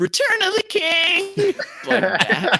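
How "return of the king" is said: very high-pitched scream with "King" drawn out. Imitating a fan at a tournament who screamed after every stock: imitating a fan screaming.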